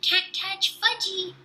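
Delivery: high, slow sing-song taunt; toddler taunt. A narrator's reading. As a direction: tease like a little boy. Fudge taunts while running off.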